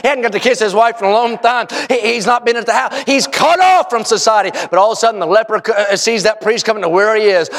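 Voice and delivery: steady, emphatic sermon delivery; preaching. Real, not acted. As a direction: preach it to a congregation with conviction. Preaches, describing the leper.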